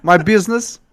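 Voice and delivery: broken English in a mock Russian accent; Russian-style villain accent. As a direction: play the foreign madman villain with a heavy Russian-style accent. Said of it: "give him really broken English lines".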